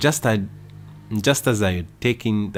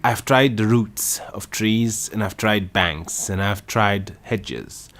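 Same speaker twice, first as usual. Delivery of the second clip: louder, indignant grumbling; aggrieved rant; 3 semitones higher, 7 dB louder than usual. A narrator's reading. Pigeon airing grievances to Alice, aggrieved rant. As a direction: rant without listening.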